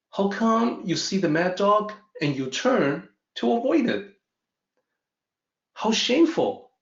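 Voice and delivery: a son pressing his dad, growing indignant; puzzled lion cub. Acted.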